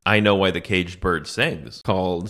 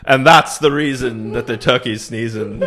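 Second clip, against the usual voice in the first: laughing poem line. Pretend. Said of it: "it's a powerful poem".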